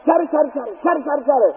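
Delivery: rapid-fire run of chatters, kept fairly quiet; imitated squirrel chatter. Preacher mimicking a pine squirrel on a stump, chattering. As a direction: rattle it off like a scolding squirrel. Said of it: "never heard such a noise".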